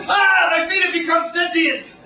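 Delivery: high, startled yelling; panicked shout. Retold or imitated. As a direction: shriek it like a freaked-out stoner. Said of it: "jump up and go".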